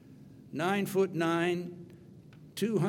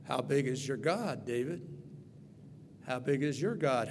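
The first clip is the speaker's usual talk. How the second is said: hushed question; 5 semitones lower, 5 dB quieter than usual. Shown as a demonstration. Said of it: "How big is my God?".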